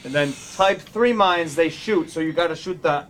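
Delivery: put-on mechanic with a Boston accent. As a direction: explain it like a Boston grease monkey. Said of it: "I'll do a Boston Mechanic to read it".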